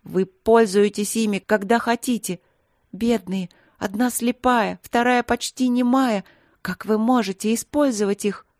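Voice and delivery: angry. Acted. Angry princess accuses.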